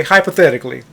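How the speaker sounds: "hypothetically" set apart as the key word; stress on HYPOTHETICALLY. Retold or imitated. Putting a hypothetical to a young lady, stress on "hypothetically". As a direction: make a point of the word "hypothetically". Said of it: "Let me stress the word hypothetically".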